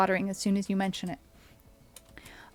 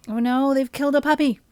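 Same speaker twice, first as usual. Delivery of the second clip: mock dismay; 5 semitones higher, 9 dB louder, faster than usual. Real, not acted. Puppy unit killed in game.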